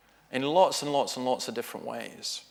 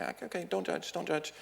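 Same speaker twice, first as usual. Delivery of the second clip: self-calming murmur; 5 semitones higher, 9 dB quieter than usual. Retold or imitated. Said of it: "I say".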